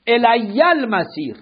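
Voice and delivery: الی المسیر said slowly, syllable by syllable, as elæ ælmæsir; slow careful reading. Shown as a demonstration. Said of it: "بنویسید الی المسیر". (آهسته و شمرده)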